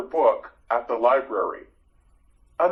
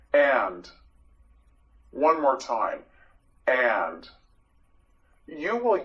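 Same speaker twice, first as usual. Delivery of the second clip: whisper; slower than usual. Shown as a demonstration. Teacher drilling the word.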